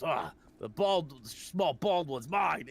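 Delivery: slow, drawn-out cartoon gloat; Krillin impression. Retelling an abridged cartoon scene, slow put-on gloat. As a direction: stretch it out like a smug little fighter. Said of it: "and he goes".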